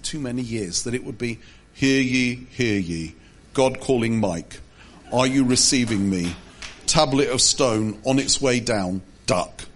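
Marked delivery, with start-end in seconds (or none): 1.7-9.6 booming God voice. Retold or imitated.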